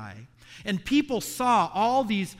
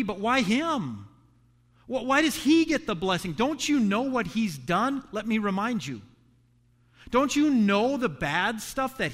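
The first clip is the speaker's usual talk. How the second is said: higher, louder indignant protest; indignant complaint; 4 semitones higher, 3 dB louder than usual. Retold or imitated. Older brother protesting to God about his brother, higher and indignant. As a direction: demand to know why he gets blessed. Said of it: "And then he's saying".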